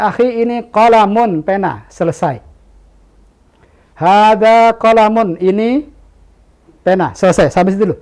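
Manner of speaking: teacher gently showing a beginner the word for pen, patient and simple; simple beginner teaching. Retold or imitated. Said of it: "Ketika kita ajarkan".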